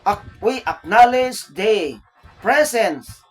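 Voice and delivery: slow, lifted emcee announcing the guest; a lightly voiced stage emcee; emcee announcement. Shown as a demonstration. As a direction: proclaim it like a host on the mic. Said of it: "Ladies and gentlemen".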